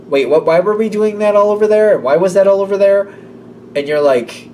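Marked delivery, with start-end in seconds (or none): 0.1-3.1 confused surprise. Pretend. Confused at the mess.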